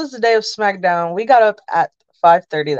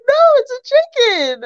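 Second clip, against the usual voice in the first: very high, exasperated squeak; exasperated reply. Retold or imitated. Fan insists to her friends, high and exasperated. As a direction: insist on it, voice shooting up.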